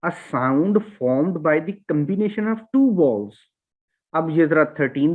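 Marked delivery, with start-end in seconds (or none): 0.1-3.3 slow, careful reread of the definition; slow dictation. Shown as a demonstration. Teacher rereads the definition slowly for the class, carefully. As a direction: spell out the definition slowly again. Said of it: "ये आठ हैं".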